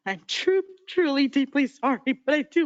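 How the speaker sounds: truly moved, pushing through the words; real emotion. Real, not acted. Council member apologizing to the grieving family, real emotion. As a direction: voice rising high as the apology breaks. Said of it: "I'm emotional right now".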